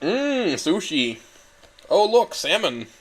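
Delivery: high, dreamy mmm about sushi; playful. Pretend. Narrator drifting off to sushi, playful high coo. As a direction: coo over food.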